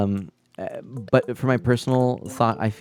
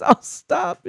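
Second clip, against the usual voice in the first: high-pitched imitation of the wife; imitating wife; 4 dB louder than usual. Quoting wife's reaction to the crying, high mock protest. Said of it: "she goes".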